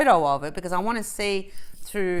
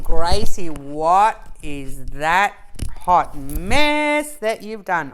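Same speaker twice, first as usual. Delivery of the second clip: imitating viewers; 4 semitones lower, 8 dB louder, much slower than usual. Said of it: "You're all going".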